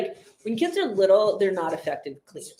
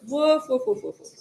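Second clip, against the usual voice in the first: imitated woofs; 5 semitones higher than usual. Shown as a demonstration. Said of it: "Dog says".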